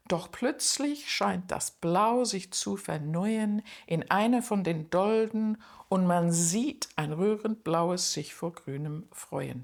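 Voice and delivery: a teacher reading a poem aloud. Acted. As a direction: read the strophe as a poem, unhurried. Reads closing strophe aloud.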